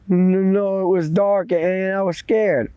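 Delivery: mildly frightened protest; scared excuse. Acted. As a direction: stumble nervously into the excuse. Boy makes excuses to old man.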